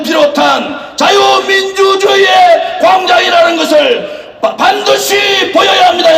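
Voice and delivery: shouted political rally speech; roaring rallying speech. Acted. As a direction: push every phrase out to the crowd.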